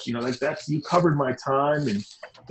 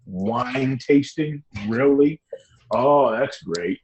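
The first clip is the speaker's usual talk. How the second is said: sarcastic; much slower than usual. Acted. Sarcastic about people's hobbies.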